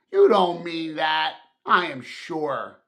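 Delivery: gently talking his uncle round; coaxing. Acted. Nephew coaxing his grumpy uncle, friendly and sure. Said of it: "said Scrooge's nephew".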